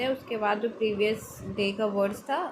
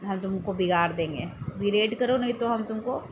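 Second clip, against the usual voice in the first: scolding threat. Retold or imitated. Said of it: "डांट रहा है उसको".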